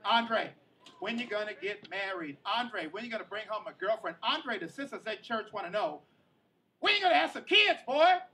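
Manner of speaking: family grilling Andre at Thanksgiving; nosy relatives. Retold or imitated. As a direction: pester him about marriage. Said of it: "They're asking a bunch of family questions".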